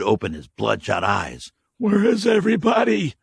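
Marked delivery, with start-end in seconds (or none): 1.8-3.1 high, loud confused shout; a hungover stranger shouting his confusion; dazed drifter. Acted. Waking stranger asking where everyone went, confused shout. Dirty man's voice.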